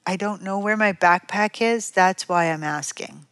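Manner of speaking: mildly polite, sneer dropped; nicer voice. Acted. Child retrying the backpack answer for mom, nicer voice. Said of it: "Child says in a nicer voice".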